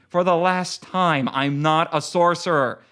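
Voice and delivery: grind it out through your teeth; through clenched teeth. Acted. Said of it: "grated a curse through clenched teeth".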